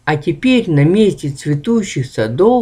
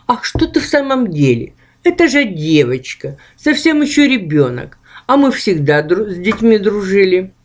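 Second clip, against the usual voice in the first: ghost voice; 3 semitones higher than usual. Acted. Ghost Akh speaks.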